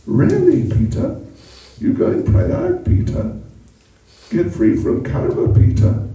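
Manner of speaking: put-on very high, wide-eyed child voice feigning surprise; little Krishna. Krishna feigns surprise at his father's pilgrimage, high child voice. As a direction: play innocent like a little boy. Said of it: "he didn't know about that".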